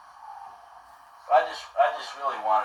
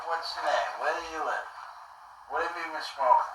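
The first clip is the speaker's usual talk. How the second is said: higher-pitched imitation of the grilling homeowner; suspicious homeowner; 5 semitones higher, 3 dB quieter than usual. Homeowner grilling the soaked boy, in a raised mimicking voice. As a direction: ask it up high, mimicking a nosy, baffled man. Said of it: "It's like".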